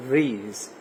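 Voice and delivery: ریز with a long "ee" vowel. Shown as a demonstration. Teacher reading out a silent-E word, long "ee" in ریز. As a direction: model ریز with a full, falling "ee". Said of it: "E long sound ہے".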